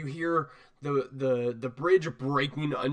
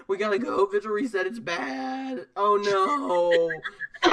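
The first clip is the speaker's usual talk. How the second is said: a touch winded and higher; out of breath; 6 semitones higher, 4 dB louder, slower than usual. Acted. Runner with hands on knees, urging the group, lightly panting. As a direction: urge them on, panting lightly. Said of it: "out of breath".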